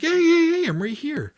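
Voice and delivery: high-pitched hail, easing down; imitating a woman flagging someone down; retold calling out. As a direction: call out to be found, without really yelling.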